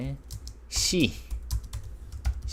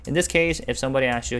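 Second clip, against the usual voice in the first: emphatic; 6 semitones higher, 3 dB louder, much faster than usual. Real, not acted. Teacher emphasizes point.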